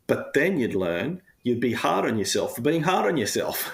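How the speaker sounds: chuckling at his own absurdity; real laughter while admitting self-criticism; laughing. Real, not acted.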